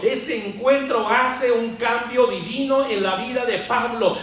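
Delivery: forceful preacher hammering parallel phrases; rousing sermon delivery; fervent preaching. Real, not acted. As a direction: proclaim it with conviction, pushing each repetition. Preaches Paul's change to congregation.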